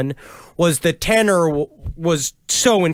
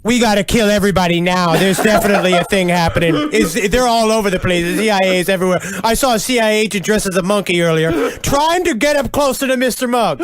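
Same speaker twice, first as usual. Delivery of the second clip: frantic Jones; faster than usual. Retold or imitated. Jones voiced after the phone call.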